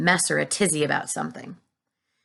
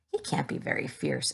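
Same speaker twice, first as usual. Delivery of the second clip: exclaim; 8 dB quieter than usual. A narrator's reading. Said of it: "exclaimed the head of all the cops".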